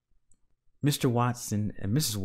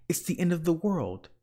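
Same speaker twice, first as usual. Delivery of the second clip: panicked wail; 8 semitones higher than usual. A narrator's reading. Panicked wife continues.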